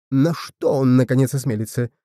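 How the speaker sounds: ordinary delivery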